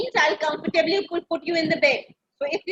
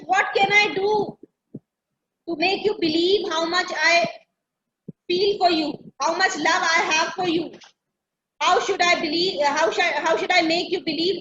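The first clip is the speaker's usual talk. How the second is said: sweet talk. Retold or imitated. Spider sweet-talking the fly, mild honeyed coaxing. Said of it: "Trying to talk very sweetly".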